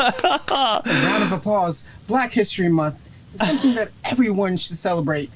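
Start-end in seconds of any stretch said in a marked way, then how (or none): 0.0-2.0 mock announcer. Echoing host's applause line.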